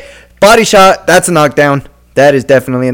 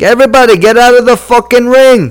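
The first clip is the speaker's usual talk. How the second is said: high-pitched mock order; raised voice, ordering everyone out; exasperated official; 8 semitones higher than usual. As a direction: imitate a referee clearing the ring. Mimics official clearing the ring.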